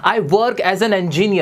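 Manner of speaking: stretched very slowly, each word apart; slow model phrase. Shown as a demonstration. Teacher modelling a new phrase for students, very slow. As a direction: draw the phrase out for the class. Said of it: "इस तरह से बोलो".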